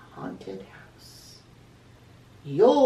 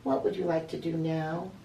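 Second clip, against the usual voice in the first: kindly. Acted. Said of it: "Angelina asked kindly".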